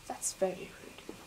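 unvoiced mock-offended aside; whispering. Real, not acted. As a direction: breathe it as a hurt aside.

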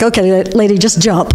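a mock guide's line broken by laughter; laughing quote. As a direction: laugh through the guy's words. Quoting zipline guy while laughing.

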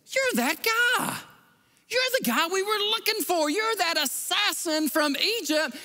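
the commander pointing him out, astonished; accusing realization. Retold or imitated. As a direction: Roman commander recognizing a suspect. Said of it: "Lysias says".

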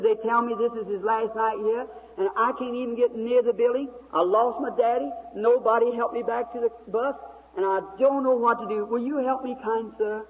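high imitated Southern girl's voice; high Southern-accented plea, imitated; Southern talk. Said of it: "that Southern talk".

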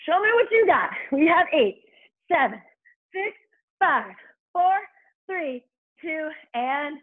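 aerobics instructor. Real, not acted. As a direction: push them through the last reps. Hyped final countdown.

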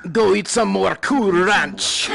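slow, drawn-out mock French taunt; hammed-up French accent, stretching the words; outrageous French accent. Player taunting an American opponent, outrageous French accent. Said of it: "in this outrageous accent".

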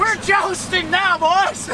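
shouting. Pretend. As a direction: yell it like a knight charging. Mock jousting battle cry.

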